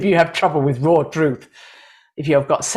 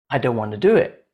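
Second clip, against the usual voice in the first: lower, stubborn refusal, lifting at the end; reluctant heart; 5 semitones lower, faster than usual. Acted. Heart answering the left brain, low and reluctant. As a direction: play the inner voice that won't budge. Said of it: "Your heart doesn't want to do it".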